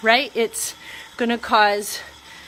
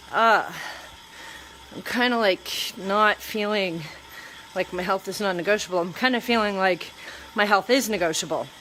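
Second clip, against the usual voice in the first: mopey; 4 semitones lower, 4 dB quieter than usual. Retold or imitated. Mopey self voiced in a funk.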